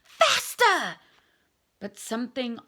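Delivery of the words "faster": loud, high urging cry; urgent shout. Acted. Harry urging his broom on, loud cry. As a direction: drive the broom faster. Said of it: "he growled at his nimbus".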